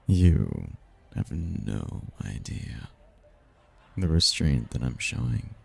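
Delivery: low, hushed, lingering murmur; seductive restraint. Acted. Demon seducing a stranger in the ballroom, restrained murmur. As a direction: drop low and soft, holding back desire.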